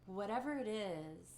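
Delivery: gently paced meditation guidance with long pauses; lightly held meditation-teacher delivery, leaving room to notice; guided meditation. Acted. Teacher guiding the community through a short meditation, guided meditation.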